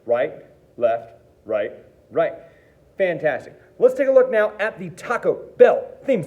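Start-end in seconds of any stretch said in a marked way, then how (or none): 0.0-2.3 steady counted calls in time; teacher counting along with students; calling the sticking. Shown as a demonstration. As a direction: call each stroke on the beat. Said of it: "and here we go".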